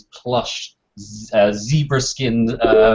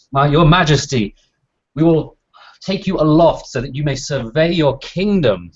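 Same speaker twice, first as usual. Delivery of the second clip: servant voice; 4 semitones higher, 4 dB louder than usual. Acted. GM voices servant ushering king.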